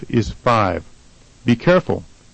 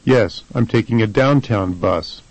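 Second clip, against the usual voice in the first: "downtown" stressed on DOWN; first-syllable stress. Shown as a demonstration. Answering the question about going downtown, stress on DOWN in "downtown". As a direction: shift the weight forward to DOWN in "downtown". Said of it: "the first syllable is stressed".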